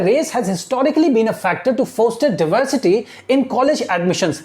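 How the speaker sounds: very slow, word by word reading; slow classroom dictation of English text. Shown as a demonstration. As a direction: read it out slowly so students follow. Teacher dictating newspaper line slowly.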